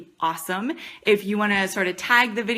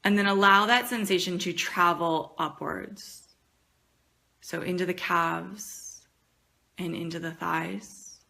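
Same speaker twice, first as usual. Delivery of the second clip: guided meditation. Acted.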